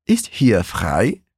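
Ist hier frei spoken very slowly, each word apart; slow model phrase. Shown as a demonstration. Teacher modelling Ist hier frei slowly for repetition. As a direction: drill it slowly, rising at the end. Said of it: "repetir a frase todinha".

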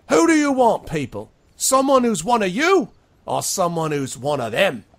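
rising, loud rally cry; high, loud demagogue asking the crowd to choose; rabble-rousing demand. Acted. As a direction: put it to the people now. Sharky demands a vote.

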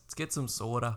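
put-on Midwestern accent. Teasing co-host about soda, mock Midwestern accent. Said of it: "they got that weird accent".

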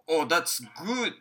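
slowly, stretching every word; slow model phrase. Shown as a demonstration. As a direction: say it slowly so learners can copy. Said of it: "っていう時に".

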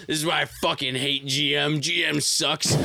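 imitating an exasperated rant; mildly heated impression of someone griping; retold anger. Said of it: "was getting mad".

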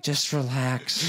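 slow, drawn-out soothing; lightly voiced dad calming things down; mild calm-down. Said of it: "my dad's like".

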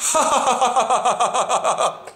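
showing how laughter releases; demo laugh. Shown as a demonstration. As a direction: open belly laugh. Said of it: "Looks very much like".

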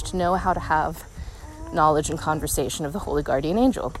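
out of breath walking uphill; puffing slightly as she talks. Real, not acted. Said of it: "I'm getting a little bit out of breath".

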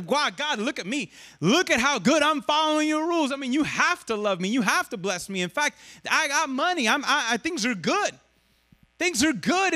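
lightly acted, eager boasting; self-satisfied rule follower. Preacher mimics Pharisees talking to God, mildly acted self-congratulation. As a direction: plead your own merits to God, pitch lifting as you go.

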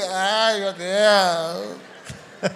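extremely slow, drawn-out wail half into a laugh; mock sob that slides into laughter; imitating crying. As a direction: drag it out like someone breaking down in tears. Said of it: "Aí chorou com gosto".

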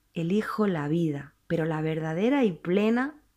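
whispered personal vow. Real, not acted. Preacher's intimate personal declaration.

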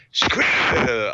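"Squirrel." garbled as skree by a lightly voiced puppet; puppet mangling a word. Kim Jong-un puppet fails again, "Squirrel." mangled in puppet voice. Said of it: "they try to get him to say squirrel".

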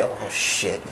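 low, hushed dread; imitating friends' quiet shock; oh-shit reaction. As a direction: murmur it low, as a stunned bystander. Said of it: "They did the "Oh, shit" face".

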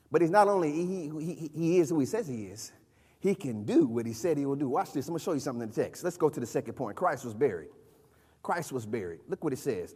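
soft, low, subdued delivery; hushed preaching. Real, not acted. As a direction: bring it right down, quietly confiding in the congregation. Preacher drops voice for next point.

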